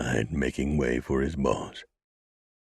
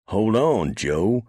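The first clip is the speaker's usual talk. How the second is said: crying out; 8 semitones higher, 6 dB louder, slower than usual. A narrator's reading. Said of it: "Drago cried".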